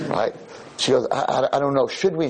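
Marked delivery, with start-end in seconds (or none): 1.1-2.3 imitating a hesitant girl, stammering at the start; lightly voiced dithering girl; girl thing. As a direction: do a girl hemming and hawing. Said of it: "She starts the whole girl thing".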